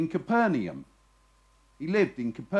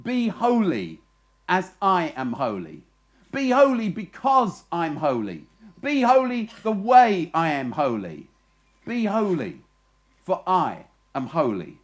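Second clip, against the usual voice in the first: God's command; 4 dB louder than usual. Acted. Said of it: "Yahweh says to his people".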